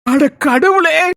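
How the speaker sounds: long drawn-out groan of dismay; exasperated. Acted. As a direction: drag the words out slowly in exasperation. Exasperated reply to a teasing rebuke.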